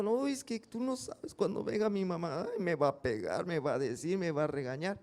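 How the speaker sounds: un toque de niño angustiado, más agudo; niño nervioso. Retold or imitated. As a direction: imitando a un niño que teme a su mamá. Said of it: "todo nervioso, preocupado". (niño contándole su miedo a un amigo, levemente nervioso)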